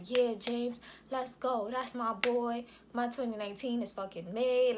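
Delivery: a touch of hype, imitating him; excited. Baby's father hears of the pregnancy, mildly imitated excitement. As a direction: retell his excited cheer with mild lift. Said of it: "He's so excited, like, so excited".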